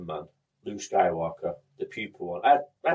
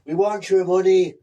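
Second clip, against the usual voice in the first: greedy charity worker; 8 semitones higher, 9 dB louder than usual. Pretend.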